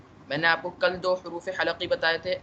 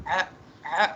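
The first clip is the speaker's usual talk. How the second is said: a pressed, strangled आ from the throat; a tight, choking आ from mid-throat; choked throat sound. Shown as a demonstration. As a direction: squeeze आ out as if choked. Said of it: "आइन centre से आप दबाएंगे ना".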